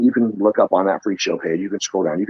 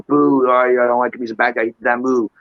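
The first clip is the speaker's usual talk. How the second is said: higher, lightly voiced heckler; mock fan booing; 5 semitones higher than usual. Fan jeering the bad guy, mock booing. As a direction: imitate a disapproving wrestling fan. Mimics wrestling fans jeering.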